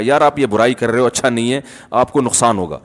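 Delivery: low, soft, discreet advice; private counsel. Acted. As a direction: take a friend aside and advise quietly. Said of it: "سائٹ پہ لے جا کے سمجھائے گا".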